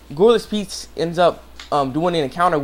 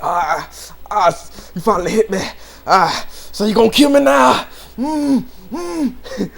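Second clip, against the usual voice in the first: hurt; 6 semitones higher, 4 dB louder, slower than usual. Retold or imitated. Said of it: "all hurt, he's like".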